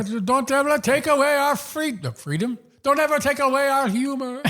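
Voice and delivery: put-on rally the troops in an improvised Scottish accent; Braveheart Scottish accent. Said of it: "That was good Braveheart".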